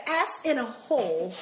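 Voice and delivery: "ass in a hole" as separate careful words; over-enunciated "ass in a hole"; inept cussing. Retold or imitated. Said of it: "don't know how to say cuss words".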